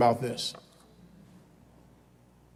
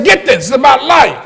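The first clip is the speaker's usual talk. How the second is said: model line to repeat; 6 semitones higher, 7 dB louder than usual. Shown as a demonstration. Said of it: "Turn to somebody and say".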